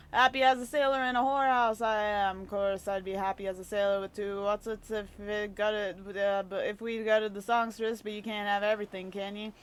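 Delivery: a hint of a salty old sea dog, cheerful; lightly voiced rough old sailor. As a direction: read it like a jolly old rogue, lightly. Voices a game character.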